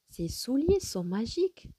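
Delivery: "souliers" and "magiques" lifted in exclamation; exclamative. Shown as a demonstration. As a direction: exclaim it with wonder, rising on "magiques". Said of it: "j'exprime un sentiment".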